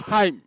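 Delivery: loud, high "haim" closing into a hum; demonstrated resonance sound. Shown as a demonstration. Teacher showing how to find one's vocal timbre, resonant hum. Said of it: "il faut fermer la bouche".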